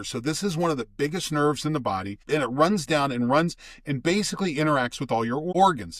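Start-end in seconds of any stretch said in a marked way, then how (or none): 2.3-6.0 talking through hiccups; hiccuping between words. Real, not acted. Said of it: "Excuse me, I got the hiccups".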